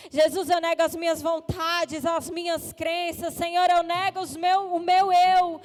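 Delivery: earnest spoken prayer for the congregation to repeat; fervent prayer voice; leading a prayer aloud. Shown as a demonstration. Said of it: "Você vai dizer ao Senhor".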